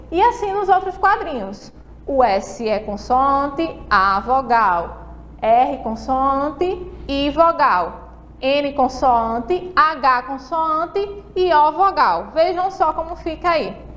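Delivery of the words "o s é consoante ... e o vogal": slow spelling out. Shown as a demonstration. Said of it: "a letrinha C representa consoante".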